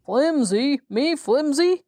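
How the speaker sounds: high, indignant disbelief; a storybook character's offended outburst; outraged cry. A narrator's reading. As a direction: fling the word back in mock rage. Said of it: "cried Jack in a rage".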